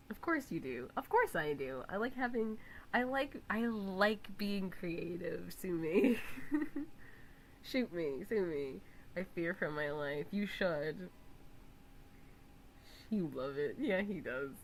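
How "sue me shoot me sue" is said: loud whispered sue me; breathy dare. Real, not acted. Streamer owning her extra requests, playful whisper. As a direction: toss it off defiantly.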